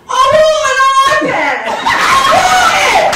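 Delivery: sick mother demanding an iPad; demanding mom. Retold or imitated. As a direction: pull off the mask and demand it. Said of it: "and she goes".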